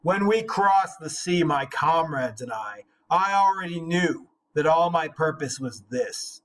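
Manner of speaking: measured, deliberate reading of epic verse; dramatic reading of a translated epic; poem reading. Acted. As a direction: read it like an old saga, weighty and steady. Reading the Beowulf translation aloud.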